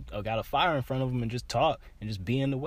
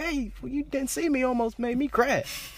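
mock indignant. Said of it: "I'm like".

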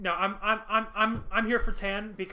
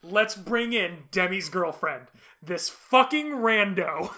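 mock announcement; slower than usual.

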